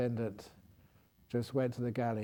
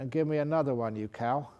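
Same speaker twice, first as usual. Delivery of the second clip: rude. Retold or imitated. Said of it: "Really being rude".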